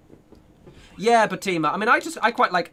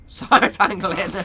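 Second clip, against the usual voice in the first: loud, higher, through real laughter; laughing apology; 4 semitones higher, 4 dB louder than usual. Real, not acted. Streamer says sorry to a teased viewer, laughing hard. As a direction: apologise while cracking up. Apologises while cracking up at teasing.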